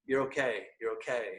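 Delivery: soft, gentle reassurance; a calm parental voice saying all is well; reassuring voice. Retold or imitated. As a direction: soothe him like a parent. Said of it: "just this reassuring, loving message".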